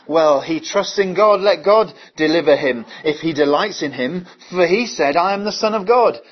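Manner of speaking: loud mocking jeer from the chief priests; mocking taunt. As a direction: taunt him like a scornful priest at the cross. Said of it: "hear the chief priests ... saying".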